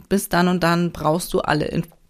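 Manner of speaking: words catching in the throat, having swallowed wrong; choked on a drink. Real, not acted. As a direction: talk through a choke. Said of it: "hab mich verschluckt". (verschluckt, mit Kratzen im Hals)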